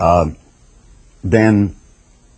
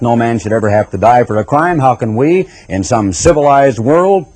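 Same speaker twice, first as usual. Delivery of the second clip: mocking opponents. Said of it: "I can hear people fairly slobbering away".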